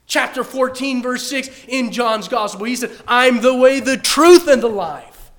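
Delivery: loud fervent pulpit voice; full-force preaching. Acted. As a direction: preach it out to the congregation.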